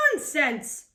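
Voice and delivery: a mild scoff. Acted. Captain dismissing the lookout, scoffing. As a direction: brush it off with scorn. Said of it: "scoffed Firebeard".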